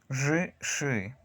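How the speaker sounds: buzzing "Zhi", then hissed "shi", both hard; voiced-voiceless contrast. Shown as a demonstration. Teacher drills the two consonants for learners, voiced then voiceless. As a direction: drop the buzz from "Zhi" to "shi". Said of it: "no hay vibración en mis cuerdas vocales".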